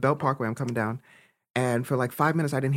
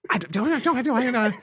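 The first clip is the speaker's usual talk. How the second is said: laughing stammer; 11 semitones higher than usual. Real, not acted. Failing to understand Dale's accent.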